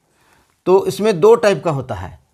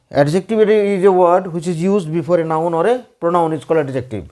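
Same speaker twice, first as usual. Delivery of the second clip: slow, word by word definition; slow dictation; much slower than usual. Shown as a demonstration. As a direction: dictate it slowly for notes. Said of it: "मैं adjective का definition बतला चुका हूँ". (धीरे धीरे बोलकर लिखवाना)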